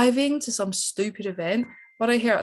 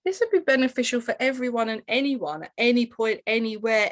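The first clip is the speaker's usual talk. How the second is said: wide-eyed, loud gasp of wonder; amazed; 4 semitones higher, 3 dB louder than usual. Retold or imitated. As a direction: act out a sudden realisation. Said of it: "have just been like".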